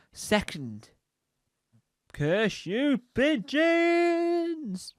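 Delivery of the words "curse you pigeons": high, very drawn-out wail; mock cursing. Cursing a nemesis, long high mock wail. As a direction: wail the curse, stretching the last word.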